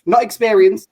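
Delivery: NOT punched high and loud; stress on NOT. Real, not acted. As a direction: hit the word Not. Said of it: "I'll point it out to anyone watching".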